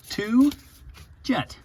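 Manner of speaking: sing-song. Shown as a demonstration. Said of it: "I'm assuming it's a two jet".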